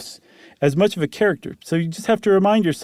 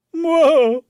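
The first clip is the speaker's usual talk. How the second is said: a high startled whoa; surprised; 12 semitones higher, 4 dB louder than usual. Real, not acted. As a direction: caught off guard by the fall. Reacts to the story's twist.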